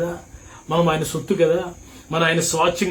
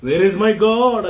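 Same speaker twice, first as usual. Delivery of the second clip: high, louder mock lament, a touch of tears; acted weeping cry; 5 semitones higher, 3 dB louder than usual. Pastor voicing Mary weeping for her Lord, mild mock wail. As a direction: cry out like a grieving woman searching. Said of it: "అని ఏడుస్తూ వెతుకుతుంది".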